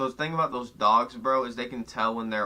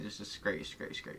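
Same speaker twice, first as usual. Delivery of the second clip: hushed, fading to a breathy whisper; 2 semitones lower, 12 dB quieter, slower than usual. Real, not acted. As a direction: drop to a whisper, urgent. Hushing friend not to name himself.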